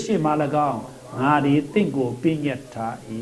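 measured, solemn reading of the verse; preacher reading scripture aloud to the church; formal scripture reading. Acted. Reads scripture aloud to congregation.

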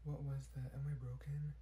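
soft whispered worry; embarrassed whisper. Acted. Girl worried after her strange noise, whispered. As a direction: whisper it to yourself.

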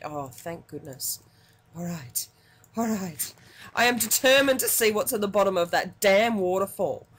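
usual speaking voice

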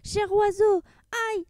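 high, pleading moans of pain; stung sultan wailing high; moaning. Acted. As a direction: beg the rooster while being stung. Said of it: "gémit le sultan".

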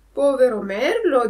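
a hint of a dismayed Pinocchio. Pinocchio pities the eaten bird. (burattino un po' sgomento)

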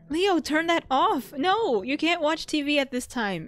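an exasperated parent laying down the rule; scolding. Acted. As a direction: tell the kid off firmly. Scolding the sim at night.

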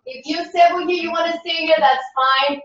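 lilting, rhythmic counting-in voice for a dance class; sing-song class cueing. Acted. Instructor cueing students through a tango warm-up in a lilting voice. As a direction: coax the class through each stretch in time with the music.

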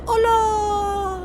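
high, loud cry of delight; a thrilled whoop; excited shout. Real, not acted. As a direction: yell it out, overjoyed. Thrilled by the motorbike sound.

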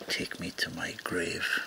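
slow, soft unvoiced whisper. A narrator's reading. The corpse whispering to Teague on its back, a slow whisper. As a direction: breathe it slowly into his ear. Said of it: "the corpse whispered in his ear".

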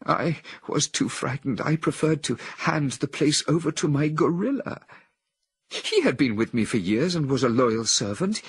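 a woman in a trance, full of anguish. A narrator's reading. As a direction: confess her shame and despair. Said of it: "continued in anguish".

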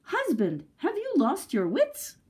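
scolding that leaps high at the end; exasperated scolding. A narrator's reading. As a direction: scold your husband, rising into disbelief. Wife still yelling at her husband.

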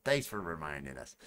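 low, dry sarcastic thanks. Shown as a demonstration. Streamer answering a reminder from chat, sarcastic. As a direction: thank them with mild sarcasm. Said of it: "I'm gonna say it in a sarcastic tone".

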